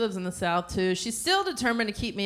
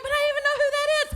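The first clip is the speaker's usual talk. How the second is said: fast, very high mock protest; exasperated son; 4 dB louder, much faster than usual. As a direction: blurt it at mom, racing and high. Exasperated son in acted quarrel.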